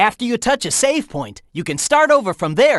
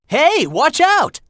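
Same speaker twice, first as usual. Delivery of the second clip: urgent warning; 7 semitones higher, slower than usual. Acted. Warning Shadow of danger.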